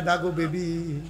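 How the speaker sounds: slow, drawn-out plaintive chant; slow sing-song sermon lament; melodic preaching. Acted. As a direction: stretch the last word into a long wavering note. Melodic preaching of retold quote.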